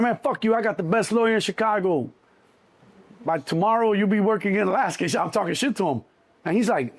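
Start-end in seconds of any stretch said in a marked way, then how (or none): 0.0-5.0 Scarface mode. Retold or imitated. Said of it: "I go in Scarface mode on him again".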